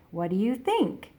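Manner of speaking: What do you think? with the pitch lifting on think; rising question tune. Shown as a demonstration. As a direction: let think go up like a real question. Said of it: "your voice kinda goes up".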